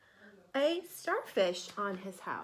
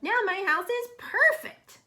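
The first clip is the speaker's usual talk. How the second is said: higher, louder happy cheer; 9 semitones higher, 7 dB louder than usual. Acted. Hermit Crab admiring his finished house, cheering. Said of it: "cheered Hermit Crab".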